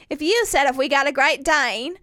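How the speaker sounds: shaky attempt at Australian, nearly Cockney; Australian accent. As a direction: imitate an Australian husband, not quite landing it. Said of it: "this is my Austri".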